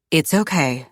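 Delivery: lightly voiced calm man; calm reassurance. The speaker reassuring a panicked mother, calm. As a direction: settle her down, low-key and easy.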